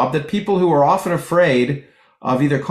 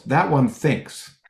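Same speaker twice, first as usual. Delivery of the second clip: punchline; much slower than usual. Retold or imitated. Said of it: "And the guy goes".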